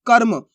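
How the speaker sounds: कर्म as "karm", the r only half sounded; no vowel after the r in कर्म: "karm". Shown as a demonstration. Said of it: "आधा उच्चारण हो रहा".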